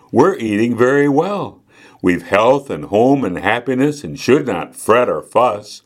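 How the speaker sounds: measured, lilting verse reading; poem recitation. A narrator's reading. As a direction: recite the rhyme line by line.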